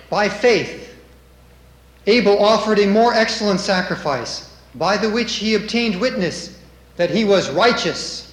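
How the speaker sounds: loud, declaimed Bible verse; scripture reading. Acted. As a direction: proclaim the verse firmly from the pulpit.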